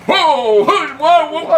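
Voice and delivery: laughing mock deep-voice whoa; gentle giant voice. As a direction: imitate the big-voiced DJ startled, laughing. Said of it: "this big, deep voice".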